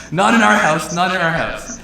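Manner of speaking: the fiance retells his TV chant, mock yelling; retold fan yell. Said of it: "yelling and screaming saying".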